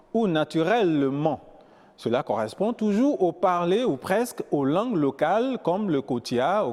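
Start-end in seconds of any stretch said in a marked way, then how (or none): 0.3-1.4 put-on "naturellement" in a Gabonese accent, every syllable sounded; Gabonese-style "naturellement"; accent gabonais. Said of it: "Vous entendez par exemple les Gabonais dire". (« naturellement » avec l'accent gabonais)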